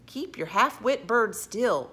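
slow, loud, emphatic telling-off; scolding. A narrator's reading. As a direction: scold the crony, leaning on each word. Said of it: "scolded Tom in a hoarse whisper".

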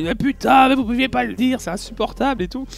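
replaying how he blew up, half-acted; retold outburst. Hotel guest venting at the clerk, mock angry. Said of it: "je pète un câble".

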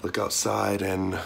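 just woke up, a touch of morning voice; lightly sleepy first-thing-in-the-morning talk. Real, not acted. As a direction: still waking up, voice not warmed up yet. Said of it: "still got my morning voice".

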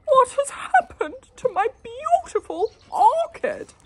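loud, high bellow. A narrator's reading. Husband discovering his orchid, bellowing. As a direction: bellow in dismay. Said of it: "he bellowed".

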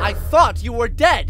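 high loud cry; anguished shout. Acted. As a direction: shout it in disbelief. Son's shocked reunion cry.

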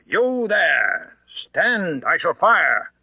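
loud, high warning shout; loud roar. A narrator's reading. Guard threatening the unseen rider, loud shout. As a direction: yell the threat down the hill. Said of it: "as loud as he could roar".

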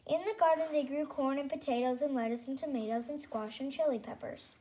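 put-on storybook read-aloud for little kids; lightly hammed story reading; reading to children. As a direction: read it like a kindergarten teacher.

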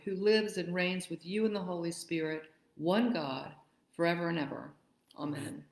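solemn, measured collect reading; formal prayer. Acted. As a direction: pray it to the congregation.

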